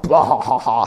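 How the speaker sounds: mock evil laugh. Mock gloating as door slams.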